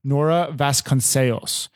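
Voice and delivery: Nora Vasconcelos with the Portuguese vowels, kon-SAY-ls; Portuguese pronunciation. Shown as a demonstration. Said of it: "Spanish Portuguese accent".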